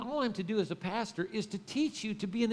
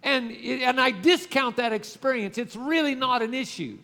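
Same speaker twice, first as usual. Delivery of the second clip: dismissive husband; 3 semitones higher, 6 dB louder than usual. Retold or imitated. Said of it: "he's basically telling her".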